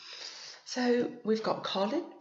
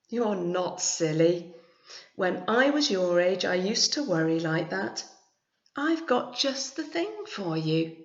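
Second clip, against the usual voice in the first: kind grandma; 5 dB louder than usual. Acted. Grandma reassures Billy.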